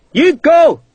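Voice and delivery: high, loud shout; urgent order. A narrator's reading. Captain sending Sharp on, loud order. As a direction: snap him into action.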